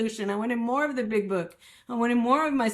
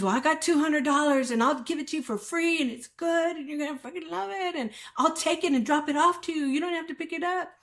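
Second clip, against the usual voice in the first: higher, hurried mock sales pitch; imitated pushy dealer; 5 semitones higher, faster than usual. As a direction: coax like a dealer pushing a freebie. Dealer coaxing her over the phone.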